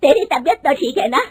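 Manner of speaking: mother-in-law scolding her daughter-in-law, loud and angry. Acted. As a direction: rebuke her sharply and loud. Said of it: "गुस्से में कहती है".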